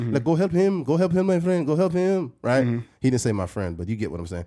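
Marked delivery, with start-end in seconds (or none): 0.1-2.3 put-on Middle Eastern-accented speech. Retelling what a man said when the speaker tried to shake his hand, Middle Eastern accent. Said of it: "he had a Middle Eastern accent".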